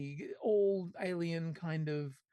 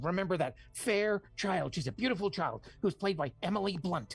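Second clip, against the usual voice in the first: conspiracy theorist; 3 semitones higher than usual. Acted. Host pitching the film synopsis to co-hosts as a hyperactive conspiracy theorist. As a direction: sell the plot like the truth is being hidden from everyone. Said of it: "could you do it in your best hyperactive conspiracy theorist voice".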